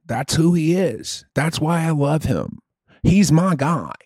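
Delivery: lightly voiced mock redneck superfan; redneck country fan. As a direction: gush about your favorite singer like a caricatured redneck.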